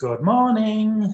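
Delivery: strange alien voice. Retelling what an alien said to him telepathically, imitating an alien's voice. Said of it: "a voice kind of like that".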